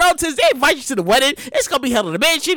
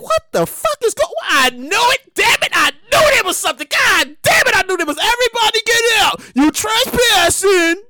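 exasperated outburst; 4 semitones higher than usual. Retold or imitated. Guest yelling after the cops break up the wedding. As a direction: blow up at the cops.

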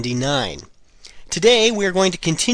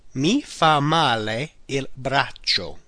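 slow, deliberate repeat; 3 dB quieter, slower than usual. Shown as a demonstration. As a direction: repeat it slowly for learners. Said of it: "The arm does me bad".

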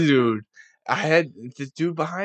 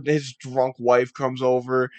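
normal talking voice

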